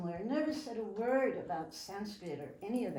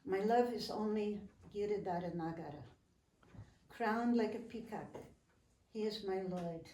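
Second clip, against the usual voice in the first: poem recitation. Acted.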